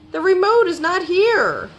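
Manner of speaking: high-pitched distressed wail; moaning dismay. A narrator's reading. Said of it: "moaned Rabbit".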